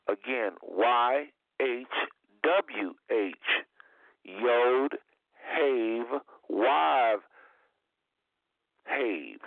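name each Hebrew letter slowly, Yod, Hav, Wav, Hav. Shown as a demonstration. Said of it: "That's the Hebrew, uh, pronunciation".

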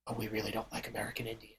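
very soft, low, quick aside; confiding hush. Retold or imitated. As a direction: imitate someone quietly admitting a prejudice. Girlfriend confides her prejudice.

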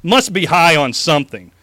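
mock presidential debate speech; hammed-up campaign oratory; megalomaniac rant. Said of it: "Straighten my tie".

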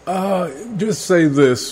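heavy reverb, slow and echoing; sounding like in a cave. Real, not acted. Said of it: "Making me sound like I'm in a cave".

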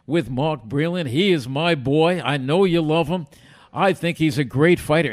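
loud, emphatic sportscaster impression; Howard Cosell. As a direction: announce yourself loudly as a famous broadcaster. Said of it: "this is Howard".

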